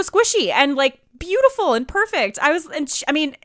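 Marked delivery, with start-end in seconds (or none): 2.4-3.4 halting, stumbling speech; stuttering. Real, not acted. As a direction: trip over the words. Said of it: "I'm stuttering right now".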